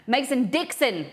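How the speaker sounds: DIXON hit high and hard; emphatic correction. Real, not acted. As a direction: punch Dixon as the corrected word. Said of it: "Okay, Dixon, not Dixie".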